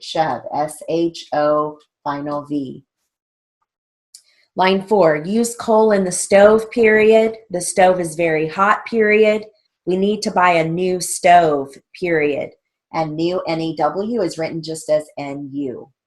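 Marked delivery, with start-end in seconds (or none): 4.6-12.5 raised, measured drill-sentence dictation. Shown as a demonstration. Teacher reading shorthand drill lines to students, dictation voice. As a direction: read out each sentence and its punctuation.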